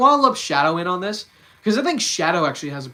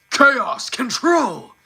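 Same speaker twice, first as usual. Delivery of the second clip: high, loud, slow gruff battle cry; gruff shout; 8 semitones higher, 7 dB louder, much slower than usual. Shown as a demonstration. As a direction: roar it out rough and drawn out. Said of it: "brings a lot more gruff to the voice".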